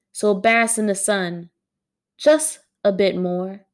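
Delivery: deliberate spoken-word cadence, lingering on line endings; poem reading. Acted. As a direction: recite each line with weight and pauses. Reading own poem aloud.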